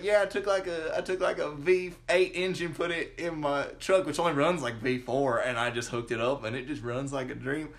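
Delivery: imitating a country coworker's Southern twang; lightly put-on Anderson County accent. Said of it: "like, Anderson County style again".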